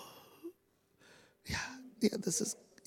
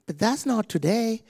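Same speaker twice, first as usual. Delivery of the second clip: taunting devil; 7 semitones higher than usual. Retold or imitated. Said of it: "Devil has the audacity though, still to say".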